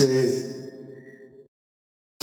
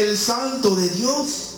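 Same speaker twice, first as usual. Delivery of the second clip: high, slow demon naming; lightly voiced demon, high and slow; 10 semitones higher, slower than usual. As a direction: draw it out in a high possessed voice. Demon names Jesus.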